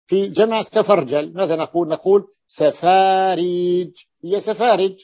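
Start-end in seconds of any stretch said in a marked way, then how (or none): 1.9-3.9 سفاريج said slowly, the long ي stretched; drawn-out سفاريج. Shown as a demonstration. Teacher drawing out سفاريج to show the added ي. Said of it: "تقول سفارج وتقول سفاريج".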